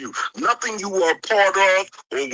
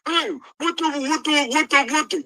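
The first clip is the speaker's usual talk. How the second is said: much higher, sputtering mocking whine; mock whining; 10 semitones higher than usual. Ridiculing the man who came to complain, with a high sputtering mock whine. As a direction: parody him stammering in a childish complaint. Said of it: "your bitch ass come up here".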